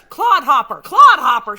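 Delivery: loud outraged shout; big, hammed-up freak-out holler; Missus Olsen freaking out. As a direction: yell the insult in a mock fit. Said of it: "Missus Olsen freaks out and says".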